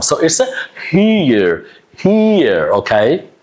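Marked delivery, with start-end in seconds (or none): 0.9-2.7 "here" as hee-yer; drawn-out "here" with two vowel sounds; Y-glide here. Shown as a demonstration. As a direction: put a Y between E and R in "here". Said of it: "you will have the Y sound".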